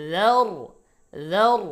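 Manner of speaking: যার recited high and loud, starting with soft "th" as in "this"; soft dhal. Shown as a demonstration. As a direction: say যার with a gentle dhal and a heavy r. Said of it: "জাল নরম". (যার-এ জাল নরম, র মোটা, জোরে)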